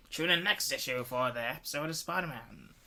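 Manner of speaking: lightly voiced Gilbert Gottfried impression; a loose, nasal-free take on an old comic-book announcer. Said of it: "you sounded like Gilbert Gottfried".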